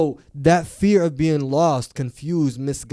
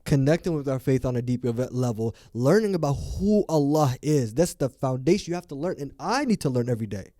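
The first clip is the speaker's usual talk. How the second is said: earnest, emphatic plea; passionate. Real, not acted. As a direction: press the point with real conviction. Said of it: "I'm a little bit passionate about this".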